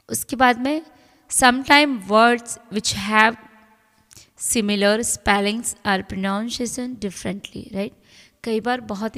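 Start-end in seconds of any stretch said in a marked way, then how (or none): 1.3-7.6 reading the rule aloud very slowly. Acted. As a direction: dictate each word slowly to the class. Reads English rule slowly. (नियम को बहुत धीरे-धीरे पढ़कर सुनाना)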